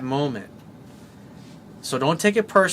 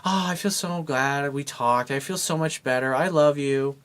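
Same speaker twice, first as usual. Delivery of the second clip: sighing with relief. Retold or imitated. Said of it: "until she sighs and she gets to that point where she's like".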